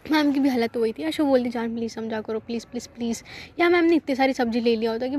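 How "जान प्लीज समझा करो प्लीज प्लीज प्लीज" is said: much softer pleading please; soft begging. Retold or imitated. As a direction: plead quietly so nobody hears. Begging the angry girlfriend.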